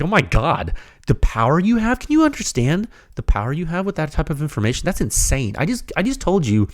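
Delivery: high-pitched, amazed outburst; genuinely excited. Real, not acted. Podcast host amazed at what the data gives listeners, excited. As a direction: marvel at it, pitch leaping up. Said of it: "if I sound excited and extreme".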